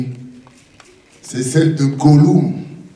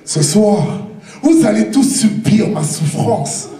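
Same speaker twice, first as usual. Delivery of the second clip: fired up; 6 semitones higher than usual. Acted. Vengeful declaration.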